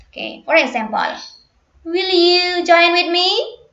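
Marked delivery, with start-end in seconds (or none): 1.9-3.5 pitch rises on the final word "me". Practicing a question in an intonation lesson, rising tone on final me. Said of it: "use rising intonation".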